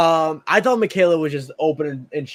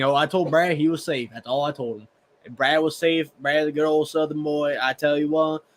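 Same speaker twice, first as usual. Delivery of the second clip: put-on a light, easygoing Southern accent quoting JT. Co-host quotes JT at camp in a light Southern accent. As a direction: lightly slip into a good old Southern boy accent. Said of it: "That J T accent, it's actually pretty good".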